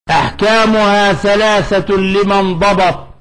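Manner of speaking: slow, measured quoting of a verse; verse recitation. Shown as a demonstration. Teacher quoting the poet's verse to students, measured recitation. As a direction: recite the line of didactic verse deliberately. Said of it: "إذن قال".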